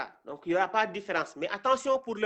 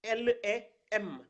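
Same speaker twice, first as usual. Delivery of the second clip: slow letter naming; slower than usual. Shown as a demonstration. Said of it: "on a".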